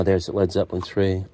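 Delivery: ordinary delivery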